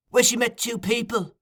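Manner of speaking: high, insistent question; Fagin, interrogating. A narrator's reading. Fagin questioning Noah, high and insistent. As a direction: lead the witness on.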